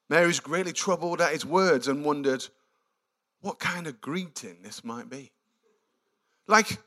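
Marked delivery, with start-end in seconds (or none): 0.1-5.3 quick reading. Shown as a demonstration. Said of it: "I love this passage".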